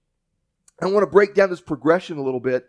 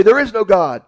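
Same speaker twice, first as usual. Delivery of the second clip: mock shouted retort; 5 semitones higher, 7 dB louder than usual. Atheist neighbor shouting back.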